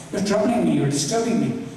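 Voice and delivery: high-pitched imitated complaint; mildly scold, voice lifted high; retold upset. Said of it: "he got very upset at me".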